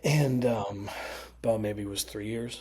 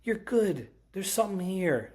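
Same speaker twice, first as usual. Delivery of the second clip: much higher retold praise; emphatic encouragement; 10 semitones higher, slower than usual. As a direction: imitate her insisting on someone's talent.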